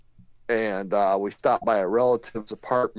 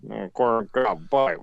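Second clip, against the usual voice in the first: put-on old general; 4 semitones lower than usual. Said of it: "What are you, MacArthur?".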